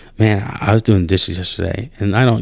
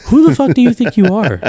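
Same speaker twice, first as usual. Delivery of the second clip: laughing, pitched-up furious disbelief; incredulous outburst; 9 semitones higher than usual. Real, not acted. To the co-host about a disrespectful soldier, outraged laughing outburst.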